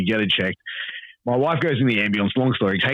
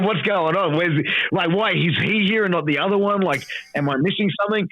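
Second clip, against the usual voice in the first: higher, puzzled rambling questions; a paramedic baffled why he is here; confused paramedic; 8 semitones higher than usual. Retold or imitated. Ambulance driver puzzling over the wrong parent, higher and puzzled.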